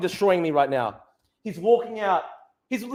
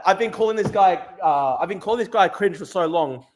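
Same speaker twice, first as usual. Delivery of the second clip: ordinary delivery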